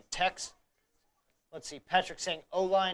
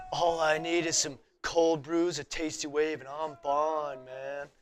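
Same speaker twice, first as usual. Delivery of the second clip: slow, laid-back surfer dude; Jeff Spicoli; slower than usual. Pretend. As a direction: drawl it like a stoned beach bum. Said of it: "Jeff Spicoli".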